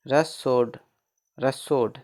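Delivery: "रसोड" opening on a plain r, no h; silent H. Shown as a demonstration. Teacher models a spelled word, "रसोड" with silent H. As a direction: say "रसोड" twice, separately, H left out. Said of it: "इसमें एच का उच्चारण नहीं होगा".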